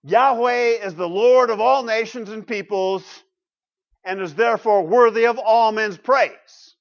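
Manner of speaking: loud, measured reading aloud; deliberate, emphatic reading of a verse; slow reading. Real, not acted. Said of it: "I'll read it slowly".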